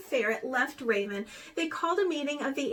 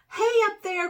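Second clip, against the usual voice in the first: higher, louder call up to the branches; 8 semitones higher, 7 dB louder than usual. A narrator's reading. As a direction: call up into the tree. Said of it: "cried Mouse".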